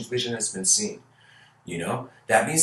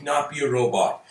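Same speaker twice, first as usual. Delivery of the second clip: put-on higher pleading child voice; whiny daughter; 7 semitones higher, 4 dB louder than usual. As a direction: beg like a kid who wants what her friends have. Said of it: "the father's like".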